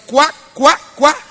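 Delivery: short duck quacks; spaced-out mock quacks; imitated duck quack. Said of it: "cuando emite un sonido, hace".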